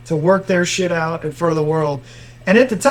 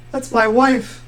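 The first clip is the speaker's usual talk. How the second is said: mock crying; 5 semitones higher, slower than usual. Crying victim answers the judge on the stand, mock crying. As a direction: imitate a man crying, pitched up. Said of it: "he's, like, crying".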